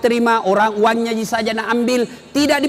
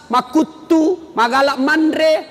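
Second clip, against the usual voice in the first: mock nagging wife; 3 semitones higher, slower than usual. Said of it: "Jangan sampai kita sudah malas".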